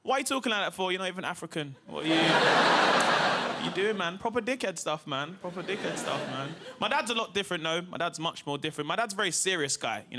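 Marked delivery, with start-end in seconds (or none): 0.0-4.2 mock outrage at mum; exasperated son. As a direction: son laughing at mum's odd voice. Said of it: "I said".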